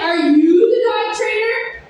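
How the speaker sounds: slow, loud, pointed question; demanding Karen. Retold or imitated. Karen confronting the dog trainer, slow and loud. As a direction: lean on each word like an entitled customer. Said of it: "she's like".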